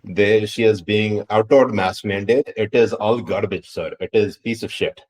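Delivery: exasperated rant in a put-on Indian accent; hammed-up Indian-accented complaint. Mock exasperated rant continues.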